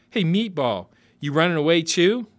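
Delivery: high, loud bratty call; taunting kid. Acted. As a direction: call out like a cheeky boy. Kid hailing stranger.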